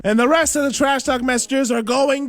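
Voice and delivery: croaky sick voice from a cold. Real, not acted. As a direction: talk through a head cold. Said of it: "in my sick voice".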